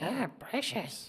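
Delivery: very high, pitched way up creature voice. Retelling proving to doubters that he could do the voice: Gollum voice. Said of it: "this sort of Gollum-like voice".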